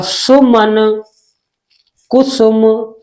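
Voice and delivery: सुमन and कुसुम with a short u, syllables set apart; short-u examples. Shown as a demonstration. Teacher giving students examples of छोटा ऊ, short u. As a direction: keep the u brief in सुमन and कुसुम. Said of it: "छोटे ऊ का sound आता है".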